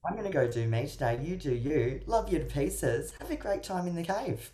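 a breezy, airy goodbye, mildly performed; breezy reassurance. Retold or imitated. Coach showing what to say to a withdrawing partner, light and breezy. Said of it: "say to them".

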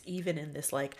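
ordinary delivery

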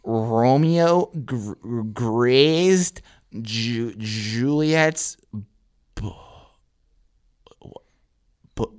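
slow, halting, stuck on first sounds; bad reader. Stoned student reading Shakespeare to class, painfully halting. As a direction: sound out each word haltingly with long stalls. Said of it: "he was not a good reader".

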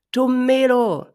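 high, loud chorus call; herd calling back. Acted. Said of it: "rief die Herde zurück".

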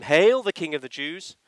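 hammed-up royal hail in scorn; sarcastic cheer of the soldiers; mocking hail. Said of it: "mocked him".

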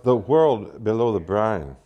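poem title announced in a Southern accent. Shown as a demonstration. Poet reads Whitman in a public cafe, Southern accent. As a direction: give the title a slow-rolling Southern accent. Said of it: "I'm going to read it with a Southern accent".

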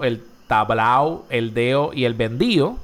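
tablao, deo, vendío without their d; d dropped in endings. Shown as a demonstration. Host lists Andalusian traits, d dropped from the endings. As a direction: leave out the d before the final o. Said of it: "la eliminación de la D".

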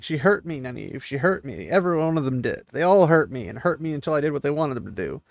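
a touch of tearful hurt, not real crying; lightly voiced sobbing.

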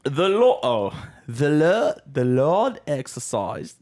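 slow, faltering British accent attempt; shaky first go at British. Shown as a demonstration. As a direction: feel your way into a British accent. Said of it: "say that sentence in your best British accent".

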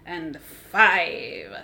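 big, slow vampire declamation; hammy Hungarian-grandfather vampire; Dracula musical voice. Acted. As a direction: belt it out like a stage Dracula. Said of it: "the Dracula musical".

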